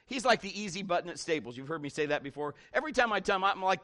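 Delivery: ordinary delivery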